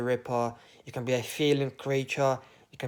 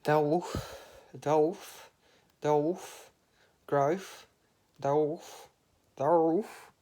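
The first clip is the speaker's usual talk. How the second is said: lightly voiced calling; 3 semitones higher, much slower than usual. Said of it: "She said".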